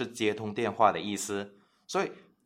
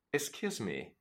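soft polite excuse me; 10 dB quieter than usual. Shown as a demonstration. Slow repeat, much softer.

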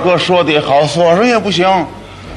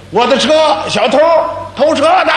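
yelling for help; 9 semitones higher than usual. Retold or imitated. Second brother yells after the thief, high shout. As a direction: call out to stop the bike thief. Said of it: "我一喊就把你截住".

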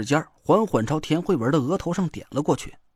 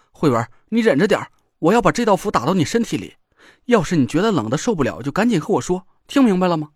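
urgent; 4 dB louder, faster than usual. Acted. Urgent instructions to suffering girl.

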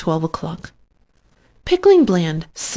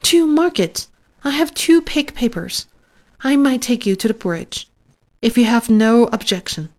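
flustered, higher pitched; confused; 4 semitones higher than usual. Acted. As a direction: stammer it out, embarrassed. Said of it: "much confused".

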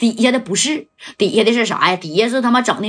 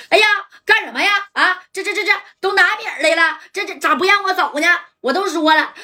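high, fast panicky pleading; Ma San wailing that he should be let go; whiny protest; 6 semitones higher than usual. Acted. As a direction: squeal it like a dragged-off captive. Ma San protests being dragged off.

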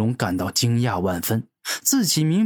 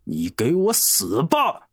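slow dragon threat; 3 semitones higher, slower than usual. Acted. Dragon pushes the killing blow.

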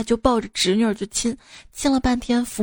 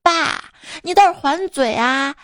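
lightly voiced daughter, pitched higher; higher, insistent mock child voice; egging-on daughter; 4 semitones higher than usual. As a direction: imitate a kid urging dad to argue back. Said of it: "旁边女儿跟我说".

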